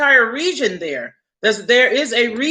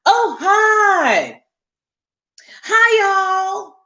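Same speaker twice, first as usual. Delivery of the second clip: mocking racist lady; 8 semitones higher, much slower than usual. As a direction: ham up the rude lady's shouted greeting. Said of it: "yelled literally from here to here".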